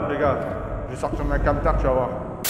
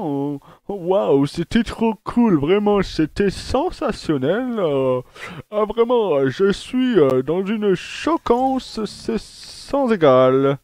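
sarcastic; 3 semitones higher, much slower than usual. Acted. Mock praise, then "je m'en bats la race.

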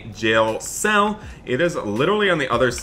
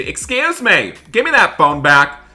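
stern command; 6 semitones higher, 6 dB louder than usual. Pretend. Deputy catches phone again.

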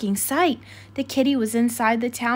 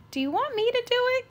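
put-on high, quick girlish voice; Katie's voice; 13 semitones higher, faster than usual. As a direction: chirp it as a friendly young woman.

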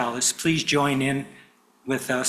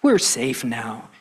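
reassuring; 4 semitones lower, slower than usual. Acted. Father comforts frightened cub.

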